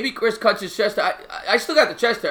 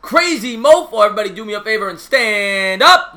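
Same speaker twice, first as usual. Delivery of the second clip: hyped-up greeting; 2 semitones higher, 6 dB louder than usual. Real, not acted. Streamer hails a regular viewer in chat, hyped-up. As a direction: raise the voice and stretch it like an arena announcer.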